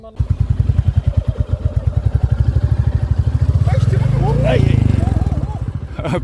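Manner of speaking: airy breathless laugh after a scare. Real, not acted. After near fall.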